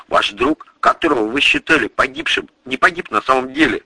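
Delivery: быстро, скороговоркой; выпали всё на одном дыхании, торопясь; затараторил. A narrator's reading. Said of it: "затараторил я". (быстрая скороговорка)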